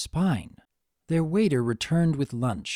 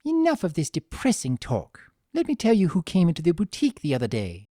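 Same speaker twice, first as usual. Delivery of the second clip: lighter, quicker chatter; brightened; 5 semitones higher, 3 dB louder than usual. Acted. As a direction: brush off the gloom, brightly. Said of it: "solemn expression brightened".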